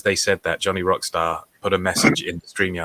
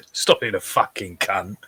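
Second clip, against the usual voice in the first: mock British accent; slower than usual. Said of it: "imitating the British line".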